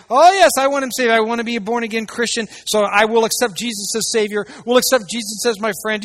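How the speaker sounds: mock eager believer. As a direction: ham up the shallow believer. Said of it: "It's like".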